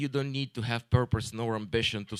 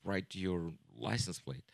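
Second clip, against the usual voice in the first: much lower and softer, a quiet mock menace; a lowered, mock-ominous warning voice; menacing customer; 9 semitones lower, 13 dB quieter than usual. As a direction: imitate the pompous guy threatening low. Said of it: "He's like".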